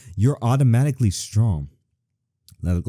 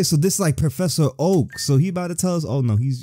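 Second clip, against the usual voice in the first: usual speaking voice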